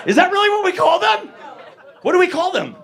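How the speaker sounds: high, loud incredulous questioning; mock outrage. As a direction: challenge the crowd in exaggerated disbelief. Mock outrage at audience's term.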